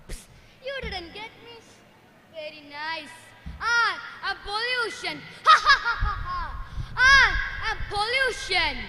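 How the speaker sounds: tease, then cackle proudly; taunting villain. Acted. Pollution taunting and laughing.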